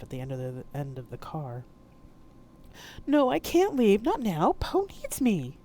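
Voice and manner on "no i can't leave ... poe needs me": high, eerie hurt ghost voice; wounded ghost asking why; ghostly mother. Acted. Mama J's ghost asking Poe why she ran, eerie.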